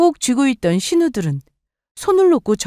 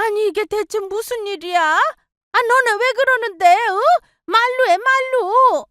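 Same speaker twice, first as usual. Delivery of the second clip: put-on much higher, frantic older woman; pleading mother-in-law; 14 semitones higher than usual. Mother-in-law pleading with fighting daughters, frantic. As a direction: beg them to stop fighting.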